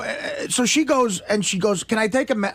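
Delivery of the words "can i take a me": lightly sweet imitation of the nurse; mildly sugary retold question. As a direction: ask it sweetly, quoting her. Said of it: "very sweet voice".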